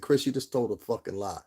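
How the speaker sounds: re-enacted blunt call-out; blunt retold accusation. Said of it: "I said it just like that".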